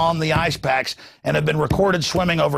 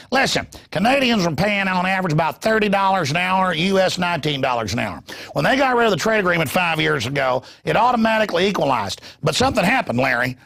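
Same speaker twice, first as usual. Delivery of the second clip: a hint of Ross Perot's folksy lecturing; lightly voiced Perot pressing his numbers; Ross Perot impression. Perot lecturing Larry King on wages, lightly imitated. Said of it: "my Ross Perot invitation".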